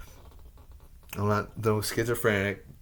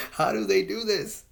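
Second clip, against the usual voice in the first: laughing; 9 semitones higher, 6 dB louder than usual. Real, not acted. Laughing through angry rant.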